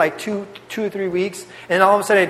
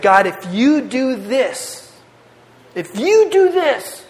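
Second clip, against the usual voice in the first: slow, pleading, voice rising higher on the repeat; retold desperate prayer; 4 semitones higher, much slower than usual. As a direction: beg God slowly as if in trouble.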